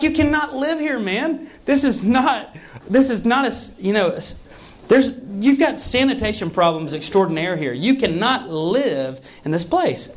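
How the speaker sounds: high, pressing plea; worried friend pleading; urgent insistence. Retold or imitated.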